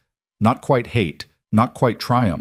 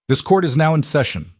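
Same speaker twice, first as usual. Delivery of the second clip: higher-pitched formal court announcement; bailiff's announcement; 7 semitones higher than usual. Acted. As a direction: announce the session to the whole courtroom. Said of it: "the bailiff announced".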